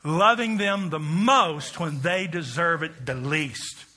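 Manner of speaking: slow, deliberate call for all to repeat; slow recitation. Shown as a demonstration. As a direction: lead the crowd slowly. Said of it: "Say that with me".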